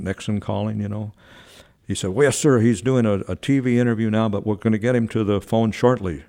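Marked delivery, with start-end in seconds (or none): 2.1-6.2 raised pitch, eager and flustered; louder start, easing as it goes; excited trainer. Retold or imitated. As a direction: imitate an over-excited trainer reporting in. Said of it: "He was so excited".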